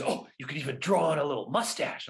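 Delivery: a hint of his father, playful suggestion; dad tossing out a goofy idea; imitating dad. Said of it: "and he goes".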